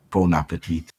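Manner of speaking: dry, sarcastic "Bon appetit"; sarcastic French. Acted. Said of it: "I like your sarcastic French".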